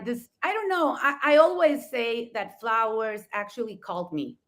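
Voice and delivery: ordinary talk, nothing marked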